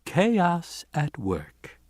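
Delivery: slow wry resignation; resigned, wry. A narrator's reading. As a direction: say it with a weary head shake. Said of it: "shaking his head".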